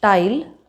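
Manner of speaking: tile with retroflex, puffless T; hard-palate T. Shown as a demonstration. Teacher showing the wrong placement, retroflex T in tile. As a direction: say tile with an Indian T. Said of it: "using the post-alveolar ridge".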